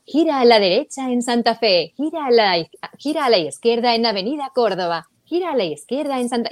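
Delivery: lightly imitated navigation voice repeating turns; a hint of a GPS gone crazy; frantic GPS voice. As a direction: mimic a confused GPS, a touch hurried. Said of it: "Entonces estaba".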